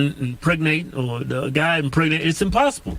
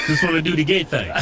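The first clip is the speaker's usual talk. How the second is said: laughing mock quote; faster than usual. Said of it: "they'll be like".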